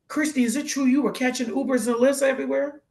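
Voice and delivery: high, incredulous probing question; blown-away questioning. Retold or imitated. Acquaintance checking whether she had no car, incredulous. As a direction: imitate an astonished friend checking a rumor. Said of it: "they were blown away".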